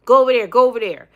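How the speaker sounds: mock Meghan waving her off; imitating Meghan shooing the lady away; bossy shooing. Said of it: "Meghan was telling the lady".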